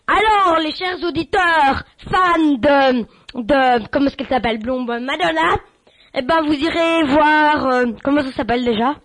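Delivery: host welcoming listeners, hammed-up announcer voice; radio announcer. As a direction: sell the station like a cheesy DJ.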